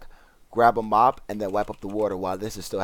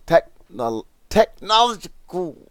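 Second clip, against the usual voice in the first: technological, squeaked out much higher; technological, high-pitched and louder; exasperated squeak; 9 semitones higher, 10 dB louder, slower than usual. Real, not acted. Frustrated at stumbling on technological.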